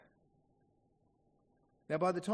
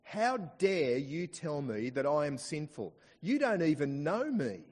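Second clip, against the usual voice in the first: put-on angry older man; 5 dB louder than usual. Angry older man confronting the visiting preacher at the church door, indignant. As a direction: act out an affronted churchgoer's angry rebuke. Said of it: "very angry older man".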